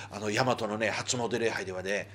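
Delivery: softly, as if sharing a secret; hushed confiding. Real, not acted. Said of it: "あんまり大きい声で言えないけど". (ひそひそ声で内緒話のように)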